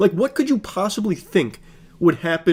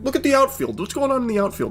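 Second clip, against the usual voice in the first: high, excited pointing out at the ballpark; playful mock stadium excitement; 8 semitones higher, faster than usual. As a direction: hype up the big moment. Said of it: "you're like".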